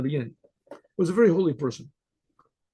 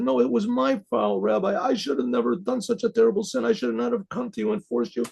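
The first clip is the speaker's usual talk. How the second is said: higher-pitched, insistent apology; earnest remorse; 6 semitones higher than usual. Retold or imitated. Man apologizing to the rabbi for forcing him, remorseful. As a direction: insist on your own blame, voice raised in pitch.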